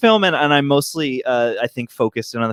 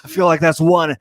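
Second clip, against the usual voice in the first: Nick Cage voice. Pretend. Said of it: "talk to Lana in your Nick Cage voice".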